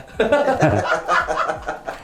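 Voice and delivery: high, chuckling burst of laughter; rueful laugh. Real, not acted. Man laughing at his own hard life, rueful laugh. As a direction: laugh it off helplessly.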